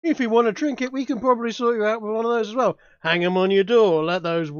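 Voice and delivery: cocky boasting huckster; carnival barker. Acted. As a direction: brag loudly to the crowd. Continues hype-man barker pitch.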